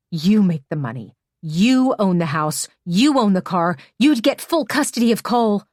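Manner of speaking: angry lecture. Acted. Hannah lists what Emmy could have done.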